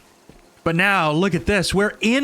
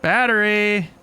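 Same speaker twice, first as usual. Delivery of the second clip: excited realization; 5 semitones higher, slower than usual. Real, not acted. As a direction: shout it as you get it. Realizes what item is.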